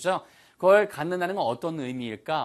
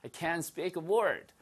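softer, slow, as if the voice is failing; pretend lost voice; 3 semitones higher, 5 dB quieter, much slower than usual. Teacher acts out someone who lost their voice, faking voicelessness. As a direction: act as if you can barely get words out. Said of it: "진짜 목소리가 안 나면 이렇게 얘기하겠죠".

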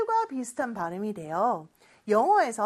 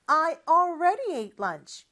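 slow model reading; 4 semitones higher, much slower than usual. Shown as a demonstration. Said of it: "큰 목소리로 따라해볼까요".

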